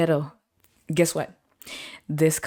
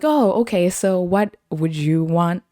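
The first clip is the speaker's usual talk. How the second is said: sassy challenge; 3 dB louder than usual. Retold or imitated. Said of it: "I was like".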